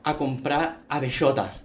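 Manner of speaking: lots of z, countryside voice; th for every s; rural Andalusian. Retold or imitated. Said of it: "con mucha Z".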